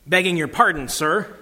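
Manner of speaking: lightly voiced humble Cockney cabbie; a hint of Cockney, deferential. Humble cabbie begging Aslan's pardon, light Cockney voice. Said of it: "quick voice of a Cockney".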